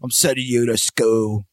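slow, drawn-out imitation of the giant; Hagrid voice. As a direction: stretch out wizard school. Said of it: "He's like".

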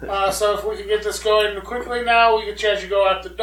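polite, projected bad British accent; badly faked British accent, marshalling a queue; terrible British accent. Stabber politely lining up victims, terrible British accent. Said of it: "That's a terrible British accent".

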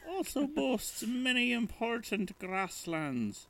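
slow, high, grand ad narrator; ad voiceover. Pretend. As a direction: read it like a lofty commercial. Mock reading of brand copy.

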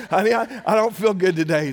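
high, whining to his wife; whiny complaint. Retold or imitated. Retelling complaining to his wife, mock whine. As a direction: play up the poor sick husband.

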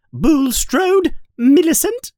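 high, loud stern teacher; teacher calling a pupil forward; loud roll call. Acted. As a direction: shout the name across the hall. McGonagall calling names.

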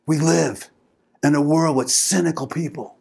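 mock movie drama, broken by long pauses; most dramatic way. Husband addressing wife before the man haters, hammed-up dramatic. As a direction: deliver it like a big film speech. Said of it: "in the most dramatic way".

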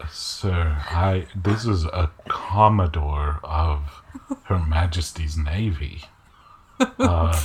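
low, halting objection; lightly voiced Richolas.

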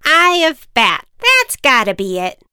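lightly voiced witch; loud witch guessing aloud.

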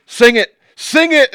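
very high, loud woman urging; high commanding woman. Retold or imitated. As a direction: demand it in her voice. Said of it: "she's like".

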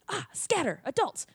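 high-pitched mock alarm; panicking alley cats. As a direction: voice startled cats raising the alarm. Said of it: "two of them are like".

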